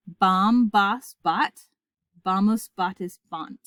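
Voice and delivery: endings drilled aloud, starting strong and tapering off; out-loud recitation. Shown as a demonstration. Latin teacher has students recite the endings along, drill style. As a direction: recite evenly, leading a class. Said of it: "recite these out loud with me".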